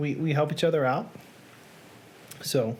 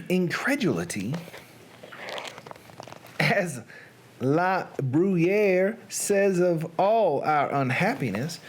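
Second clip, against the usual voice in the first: deliberate Southern storytelling; Southern accent. Pretend. Reader getting through Poe's hard first paragraph, Southern accent. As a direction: read it carefully in a Southern accent. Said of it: "in a Southern accent".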